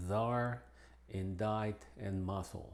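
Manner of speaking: C not sounded in czar, indict, muscle; English silent C. Shown as a demonstration. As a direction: drop the C in these words. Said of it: "es muda en algunas". (C muda en inglés)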